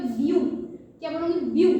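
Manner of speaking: correcting बीयू to ब्यू; teaching pronunciation. Shown as a demonstration. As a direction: squeeze ब्यू into a single byoo sound. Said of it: "पर इसको बीयू नहीं लिखते".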